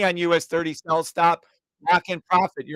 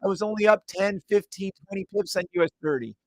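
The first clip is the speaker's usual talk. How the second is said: mock whining trader; 3 semitones higher than usual. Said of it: "do not come whining to me".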